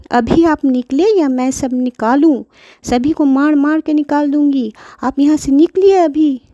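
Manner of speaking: mother ordering out. Acted. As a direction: push granny out impatiently.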